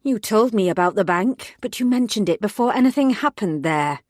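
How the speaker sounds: loud, clipped reprimand; angry scolding. Acted. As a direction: tear a strip off the junior officer. Angry boss scolding on phone.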